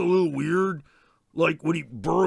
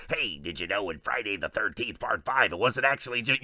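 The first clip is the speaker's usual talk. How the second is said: deep Ghostface voice; 8 semitones lower, 6 dB quieter than usual. Retold or imitated. Ghostface pestering the slasher, low caller voice. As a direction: lower menacing caller reciting trivia.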